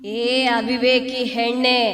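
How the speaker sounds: menacing ghost. Acted. Ghost threatens.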